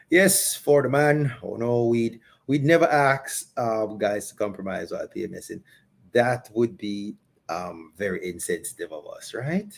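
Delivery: sarcastic aside, sinking to a low murmur. Acted. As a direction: feign concern for the men, tongue in cheek. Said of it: "Was that sarcasm?".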